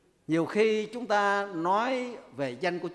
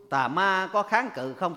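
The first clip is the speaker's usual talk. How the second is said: ordinary delivery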